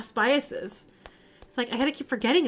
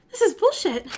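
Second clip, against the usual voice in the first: louder, higher indignant snap; angry outburst; 7 semitones higher, 5 dB louder than usual. Acted. Evicted tenant yelling at the landlord, angry. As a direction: spit it out in outrage.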